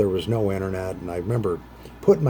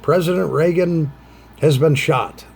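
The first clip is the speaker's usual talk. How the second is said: breaking news bulletin; 6 semitones higher, 5 dB louder than usual. Retold or imitated. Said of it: "whatever they said".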